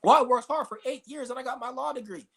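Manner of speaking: lightly mocking a boastful lawyer; mock proud graduate. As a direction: parody a pleased law grad bragging. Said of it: "somebody will go to college and be a lawyer".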